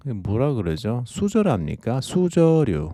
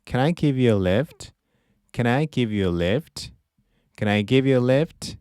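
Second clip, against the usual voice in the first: slow model phrase; 2 semitones higher, slower than usual. Shown as a demonstration. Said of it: "teacher models phrase".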